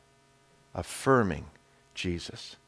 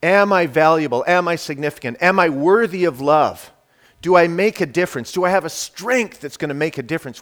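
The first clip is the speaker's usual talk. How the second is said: anxious inner question; 4 semitones higher, 6 dB louder, faster than usual. Acted. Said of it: "we take our question".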